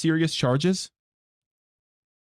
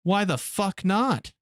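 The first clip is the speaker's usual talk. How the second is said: slow, a touch higher, lightly voiced cartoon kid; South Park quote; 5 semitones higher, slower than usual. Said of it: "Fucking South Park".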